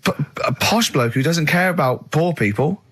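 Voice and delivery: high, slow, hammed-up surprise at the door; lightly voiced sketch host; mock doorbell sketch. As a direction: play the panto host greeting the caller. Acting out Rockbusters doorbell sketch.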